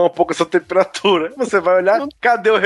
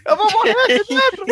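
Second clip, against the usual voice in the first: imitating a panicked high-pitched shriek; retold scream. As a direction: squeal it as a mock cry for help from the shower. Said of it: "ela começa a gritar".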